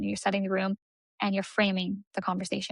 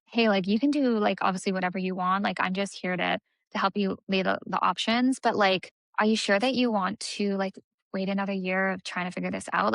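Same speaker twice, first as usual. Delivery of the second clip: concerned. Shown as a demonstration. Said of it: "bring in, like, concerned".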